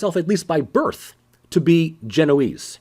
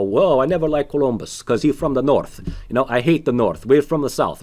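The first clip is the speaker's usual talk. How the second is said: imitating Furio; 3 semitones lower than usual. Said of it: "if you listen to Furio talking".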